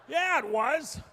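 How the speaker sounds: very loud high yell; mock shout. Dad yelling to his son to show Mom, very loud. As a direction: shove the kid off toward Mom with a shout. Dad sending kid away.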